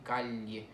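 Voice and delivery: calle said "cal-ye", double L as in Italian; Italian GLI sound. Shown as a demonstration. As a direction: let an L be heard before the Y in calle. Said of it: "que es G L I".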